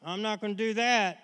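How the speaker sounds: mock a strained resolve not to get angry; tense vow. Preacher mimics a believer anxiously promising God not to get angry, mildly tense. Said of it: "don't get all tense and".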